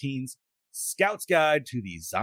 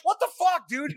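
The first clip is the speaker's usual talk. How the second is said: mock disbelief. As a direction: play up the disbelief. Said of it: "And I was like".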